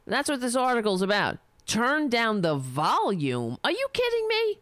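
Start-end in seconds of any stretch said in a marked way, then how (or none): 1.7-3.6 slow, stretched disbelief, TURN dragged out; incredulous repeat. Real, not acted. 3.6-4.6 shoots way up high in disbelief; can't believe what he's reading; outraged disbelief. Real, not acted. Outraged at the headline.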